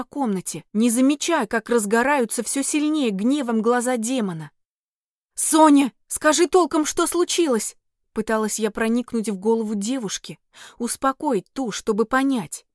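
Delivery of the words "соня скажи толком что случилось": raised, urgent questioning. Acted. Heroine asks the panicked fairy what happened, urgent raised voice. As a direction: press her to explain, anxious.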